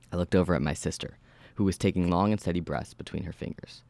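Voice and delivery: measured horror-story narration; steady storyteller reading. A narrator's reading. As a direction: read the story aloud with even, controlled delivery. Reads horror story aloud.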